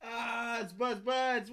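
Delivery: high-pitched mock Cajun voice; Cajun impression. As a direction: put on a squealing-high Cajun caricature. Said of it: "they sound like".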